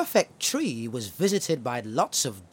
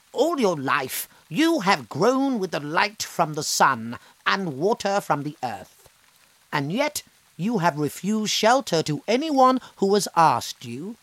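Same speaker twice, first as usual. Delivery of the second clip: a touch louder stern scolding; a hint of a stern fairy; 5 semitones higher, 3 dB louder than usual. Fairy scolding the selfish tree, stern. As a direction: scold the tree gently but firmly. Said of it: "said the old woman".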